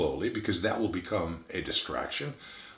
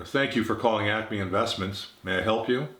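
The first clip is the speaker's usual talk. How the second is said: uninterested. Shown as a demonstration. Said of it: "there's a lack of interest and attention".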